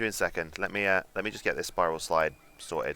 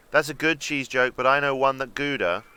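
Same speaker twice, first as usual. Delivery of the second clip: plain; 4 semitones higher, 5 dB louder than usual. Acted. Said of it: "I'd have taken it the other way".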